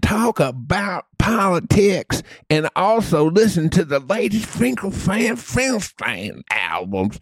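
lightly voiced mock redneck superfan; redneck country fan. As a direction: gush about your favorite singer like a caricatured redneck.

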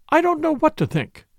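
high, mildly tearful wail. A narrator's reading. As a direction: fret helplessly, a touch weepy. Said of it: "said Missus Ackroyd tearfully".

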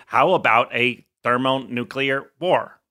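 slow, even robot voice; slow machine-like robot voice. Retold or imitated. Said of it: "thing with the robot voice".

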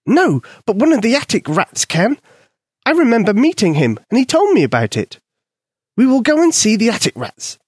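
high, tiny mouse voice; squeaky mouse voice. A narrator's reading. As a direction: voice a small eager mouse. Mouse Polka speaks.

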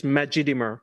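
Majidimir run together with even stress; no accented syllable. Shown as a demonstration. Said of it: "There isn't one".

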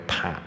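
"怕" as an overdone "pot" with a stretched "ah"; exaggerated American vowel. Shown as a demonstration. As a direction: overstretch the open vowel in "怕". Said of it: "我就觉得说轻松一点". (夸张的美式发音)

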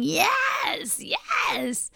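a high squeal on "Yes", then dropping off; mock cheering. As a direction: imitate the crowd cheering for the new chief. Mimicking the cheering crowd.

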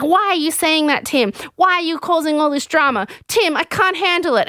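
high-pitched overwrought pleading; imitating a dramatic meltdown; mock distraught protest. Kieran confronts Tim over the drama, mock distraught. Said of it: "And he's like".

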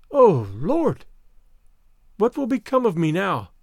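a touch of an overstrained whine; lamentable whine. A narrator's reading. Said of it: "she suddenly whined in a lamentable, overstrained voice".

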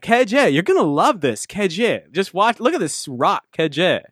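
put-on Valley Girl-tinged New York accent; Adam Sandler. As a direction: imitate an excitable New York jeweler's accent, selling hard. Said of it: "almost like a Valley Girl New York accent".

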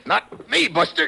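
a high, laughing taunt; mocking laugh. Hero taunting the thug during the fight, laughing. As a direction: laugh it off as you shove him away. Fight at cable car edge.

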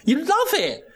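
high, mocking sing-song tease; teasing. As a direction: needle him playfully. Teasing friend.

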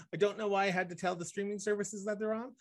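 ordinary talk

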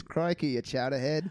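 light Australian-Boston mix; Australian accent. Acted. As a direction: toss out Aussie-Boston slang. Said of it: "all I wanna say is".

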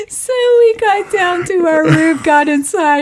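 words squeezed out through laughter; laughing. Real, not acted. Laughing while telling story.

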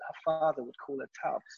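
soft, almost lost remark; hard to hear. Real, not acted. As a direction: say it softly, barely reaching the listener. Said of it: "I couldn't hear you".

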